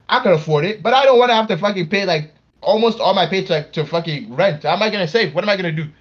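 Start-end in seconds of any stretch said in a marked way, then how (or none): 0.1-4.6 exasperated rant. Real, not acted. Ranting about rent.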